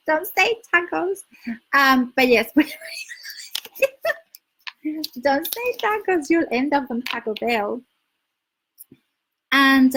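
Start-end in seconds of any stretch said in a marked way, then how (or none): 0.1-1.2 laughing through a warning. Real, not acted. Repeating her joke warning to viewers, laughing. 5.2-7.8 playful warning. Real, not acted. Repeats the joke warning.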